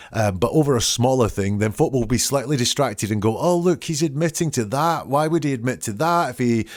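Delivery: mock the liar's smug inner reasoning; imitating a lying person's thoughts. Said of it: "their thought process is".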